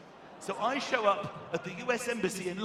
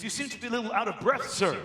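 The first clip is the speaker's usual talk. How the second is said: polite official; 4 semitones higher, 9 dB louder than usual. Retold or imitated. Embassy guard addresses panting comedian.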